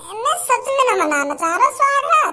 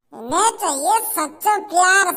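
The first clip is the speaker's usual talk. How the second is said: scornful low taunt; lower sneering mockery; 6 semitones lower than usual. Man mocks the girl for wanting true love, lower and sneering. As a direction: drop lower and sneer at her wish.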